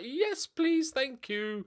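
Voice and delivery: mock-thrilled acceptance of a bargain; eager yes please. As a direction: squeal the yes please with glee. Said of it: "I'm like".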